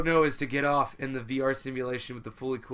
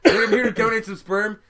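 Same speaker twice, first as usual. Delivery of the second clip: loud disgusted; 5 semitones higher, 7 dB louder than usual. Real, not acted.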